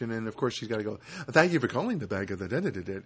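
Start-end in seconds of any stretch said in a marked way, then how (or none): 1.3-3.0 mock clerk's sign-off; lightly imitated phone-agent patter; fake politeness. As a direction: rattle off a rote courtesy mockingly. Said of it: "I just hate that fake, fake politeness".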